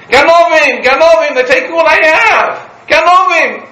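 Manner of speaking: high, loud screams of thief; an old woman yelling for help in the market; market woman screaming. Retold or imitated. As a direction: shriek it out like she's being robbed. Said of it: "in the middle of the market screaming".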